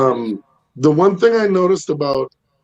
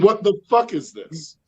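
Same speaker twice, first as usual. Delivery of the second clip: higher mock yell at the dogs; 5 semitones higher than usual. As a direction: scold the dog, half laughing. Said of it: "the three things that I pretty much yell".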